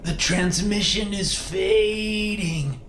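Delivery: high, tearful, drawn-out goodbye; fading ghostly farewell. Pretend. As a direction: fade away like a dying signal. Medium fakes fading ghost farewell.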